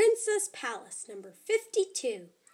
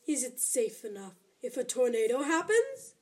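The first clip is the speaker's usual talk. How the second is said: creepy voice. Acted. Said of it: "The creepy voice".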